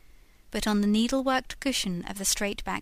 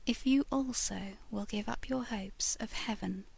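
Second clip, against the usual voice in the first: hushed, breathy ghost woman confiding her fate; soft whispered ghost voice; ghostly lady whispering; 5 dB quieter than usual. Acted. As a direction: whisper it like a spirit from a picture frame. Lady's whispered plea.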